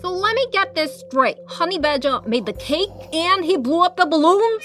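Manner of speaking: high, skeptical questioning; high and disbelieving; incredulous Dole voice. Acted. Dole questions friends, odd voice.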